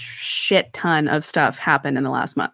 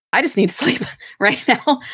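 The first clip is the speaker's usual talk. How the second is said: a laugh breaking into a quick, higher line; 6 semitones higher, faster than usual. Retold or imitated. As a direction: laugh at how tired you were. Laughs mid-quote.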